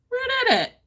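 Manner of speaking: high, eager question; excited curiosity. Retold or imitated. Vlogger recalling spotting a green shade, high eager question. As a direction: perk up, you just spotted it.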